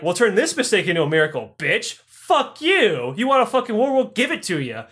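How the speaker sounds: fast, cocky comeback rising to a high yelled fuck you; defiant mock threat. Londoners defying Hitler, cocky mock war cry. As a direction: taunt the enemy like a swaggering hothead. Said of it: "the fucking London Knights were like".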